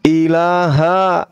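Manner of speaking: slow, deliberate word for the convert to repeat; slow recitation lead. Shown as a demonstration. Teacher leading the convert through the shahada, slow and deliberate. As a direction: lay out each syllable slowly for him to echo. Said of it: "ikuti saya dalam bahasa Arab".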